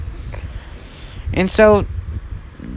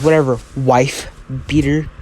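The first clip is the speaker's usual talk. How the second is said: understated dismissive sneer. Acted. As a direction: toss it off with light contempt. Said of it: "sends him with a sneer".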